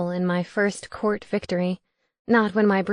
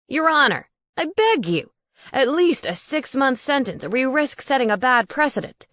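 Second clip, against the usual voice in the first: pleading wizard; 6 semitones higher, 3 dB louder than usual. Acted.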